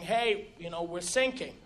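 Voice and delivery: low, soft, casual heads-up; understated, low-key announcement; not screaming. Retold or imitated. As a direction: say it quietly, as if it's no big deal. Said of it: "not screaming or anything".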